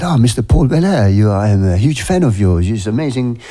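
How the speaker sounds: a fan gushing in a mock French accent; playful mock French accent. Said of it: "in his French accent".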